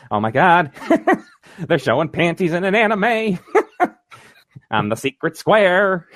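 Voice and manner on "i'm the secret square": lightly voiced, slow quip; a hint of Paul Lynde; Paul Lynde impression. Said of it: "The Paul Lynde always gets me".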